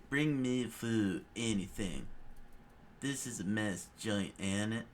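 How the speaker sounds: slow, lightly voiced Dale growl. Krieg demanding food, slow lightly done Dale voice. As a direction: settle into the Dale impression. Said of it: "Dale from King of the Hill".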